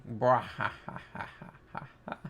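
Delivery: soft, low mock hearty laugh; a quiet nod to a big booming laugh; imitating a laugh. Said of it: "And he's laughing".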